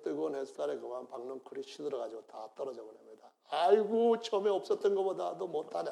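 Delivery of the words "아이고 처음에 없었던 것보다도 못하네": a hint of whining Jonah, higher; complaining Jonah. Jonah grumbling to God over the withered plant, mild whine.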